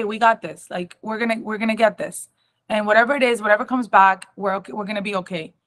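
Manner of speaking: steady, gentle mother's comfort; calm reassurance. Retold or imitated. Mother comforts daughter before biopsy, calm and steady. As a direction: reassure her it will be fine. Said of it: "calmness to herself".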